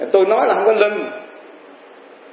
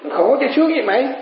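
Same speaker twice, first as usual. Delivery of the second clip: put-on old father's answer; 8 semitones higher than usual. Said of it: "sướng hay khổ".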